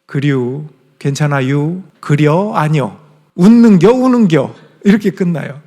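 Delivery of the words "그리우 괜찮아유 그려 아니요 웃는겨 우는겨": Chungcheong endings drawn out on -유 and -여; Chungcheong dialect. Shown as a demonstration. Preacher demonstrating Chungcheong dialect to congregation, lilting. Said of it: "사투리가 유나 여로 끝나요".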